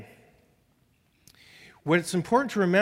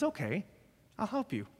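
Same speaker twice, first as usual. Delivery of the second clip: softer, a hint of a kindly God; quiet, easy reassurance; God's gentle answer; 3 semitones higher, 10 dB quieter than usual. Pastor voices God answering a tired parent, softly.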